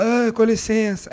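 slow, drawn-out lazy "Ah, com licença"; his lazy everyday voice. Shown as a demonstration. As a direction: let it drag out as if half awake. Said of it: "Essa é a minha voz mesmo".

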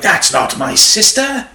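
high, slow, shocked denial. Retold or imitated. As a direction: drag it out in disbelief. Retold shocked woman.

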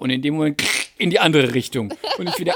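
usual speaking voice

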